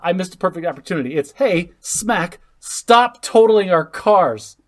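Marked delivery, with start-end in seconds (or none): 1.3-4.6 loud mock scolding; scolding parent. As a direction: bark it like an angry dad. Acted parent scolding kid.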